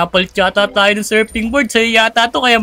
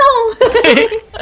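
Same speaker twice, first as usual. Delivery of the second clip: high laugh; 12 semitones higher than usual. Real, not acted. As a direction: burst of high-pitched laughter. Laughing at friend's slowdown.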